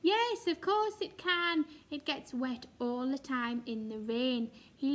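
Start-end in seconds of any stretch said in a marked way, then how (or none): 0.0-1.6 emphatic yes. Real, not acted. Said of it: "teacher answering silly question".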